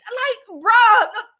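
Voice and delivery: loud laughing yelp; laughing outburst. Real, not acted. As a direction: blurt it out through laughter. Disgusted outburst while laughing.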